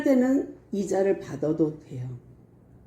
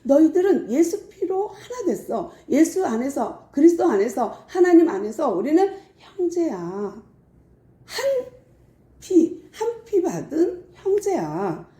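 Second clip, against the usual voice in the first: higher, pleading apostle with a laugh in it; a heartfelt plea to quarreling brothers; Paul pleading; 4 semitones higher than usual. Retold or imitated. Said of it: "안타까워서 말을 하는 거예요".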